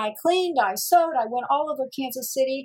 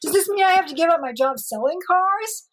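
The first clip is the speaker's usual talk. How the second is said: shocked disbelief; 7 semitones higher, 4 dB louder than usual. Retold or imitated. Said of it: "I'm like".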